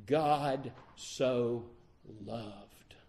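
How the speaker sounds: "God", "so", "loved" set apart by pauses; weight on "God so loved". Shown as a demonstration. Preacher showing the proper emphasis, measured weight on "God so loved". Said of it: "the emphasis in this verse is on".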